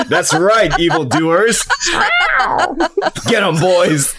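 put-on swaggering Puss in Boots in Spanish accent; bad Spanish accent. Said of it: "I would talk in a very bad Spanish accent".

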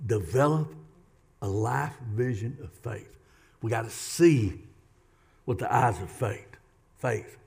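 soft, hushed closing appeal; quiet closing. Real, not acted. Preacher closing the sermon softly. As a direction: bring it down to a hush.

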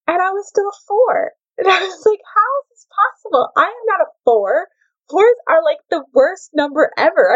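high, teary mock wail about being a four; mock breakdown. Retelling her personality test result, in a hammed-up teary wail. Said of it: "I literally had a breakdown".

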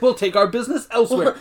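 high-pitched mock indignation; retold freak-out. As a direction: imitate an offended customer storming out. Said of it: "freaks out and, like, barges out".

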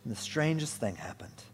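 measured, expressive story narration; gently dramatic narrator; storybook reading. A narrator's reading. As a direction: read it like a tale, pausing between phrases. Reads a children's storybook.

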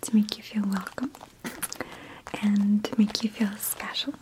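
hushed, unvoiced spa attendant whisper; soft spa whisper. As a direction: whisper like a pampering spa host. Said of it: "Why is she whispering?".

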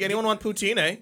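playful Canadian accent imitation; mock Canadian accent. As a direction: tease with a light Canadian accent. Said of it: "a little maple leaf accent".

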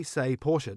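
Porsche said as "POR-sha"; two-syllable Porsche. Shown as a demonstration. Host challenges Andy on the name, Porsche said POR-sha. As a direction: sound the final e of "Porsche" as uh. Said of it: "I said Porsche, like most Australians".

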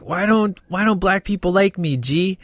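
imitated complaint. Fan quoting a character complaining to Marcus, mock plaintive.

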